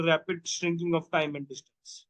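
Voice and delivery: key term drawn out very slowly; slow dictation. Shown as a demonstration. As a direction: lay out each word for the class to write. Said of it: "dictating key term slowly". (धीरे धीरे शब्द लिखवाना)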